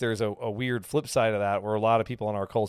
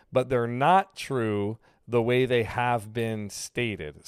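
slow, deliberate restatement; much slower than usual. Shown as a demonstration. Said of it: "like I just did right there".

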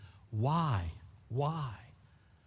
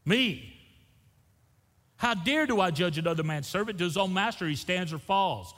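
self-rebuke; 8 semitones higher, 5 dB louder than usual. Retold or imitated. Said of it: "Then I thought".

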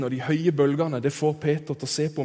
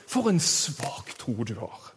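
slow, quieter mock-sanctimonious reproach; skinnhellig kristen; 5 dB quieter than usual. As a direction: put on a self-righteous Christian's disapproval. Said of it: "den selvrettferdige, skinnhellige, kristne stemmen". (selvrettferdig, langsom og skinnhellig bebreidelse)

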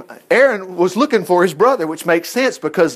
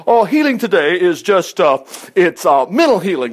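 mimicking a hedging believer; mocking believer. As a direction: put on a pious know-it-all. Mocks what believers preach.

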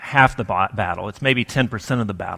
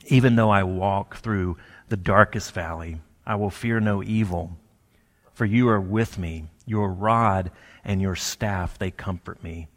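scripture recitation; 4 semitones lower than usual. Acted. Preacher recites the psalm verse.

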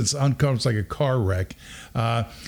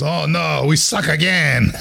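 mock-dismayed movie wail, raised in pitch; quoting a movie line; 4 semitones higher, slower than usual. Son quoting a comedy movie after a wrong answer, mock dismay. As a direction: drag it out like a hammed-up comedy lament. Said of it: "You know which movie that's from?".

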